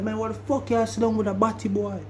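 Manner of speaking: put-on high, outraged Jamaican accent; mad Jamaican accent. Tony confronting Valdosta about who he sat with, mad Jamaican accent. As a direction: imitate an angry Jamaican demanding an answer. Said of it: "when I get mad, my accent will come out".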